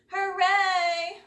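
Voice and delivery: put-on high, loud gleeful shout of a mean boy. A narrator's reading. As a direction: yell it out in triumph. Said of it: "shouted a mean boy named Jim".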